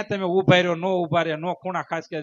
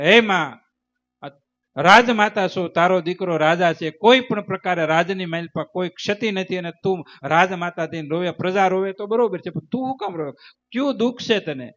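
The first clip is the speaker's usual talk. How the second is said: raised, urgent voice begging his mother; son's loud plea; 3 dB louder than usual. Acted. King asks his weeping queen mother why, loud pleading. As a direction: call out to her, pleading why she cries.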